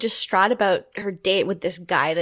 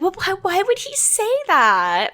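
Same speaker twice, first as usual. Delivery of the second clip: retold bewilderment; 10 semitones higher than usual. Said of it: "she's too confused to say anything".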